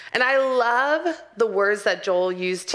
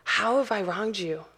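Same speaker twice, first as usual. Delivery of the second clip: open-hearted repentance. Acted. Believer humbly asking God how they wronged him, earnest. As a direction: ask it humbly, with space between phrases. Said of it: "tearing your heart open and going".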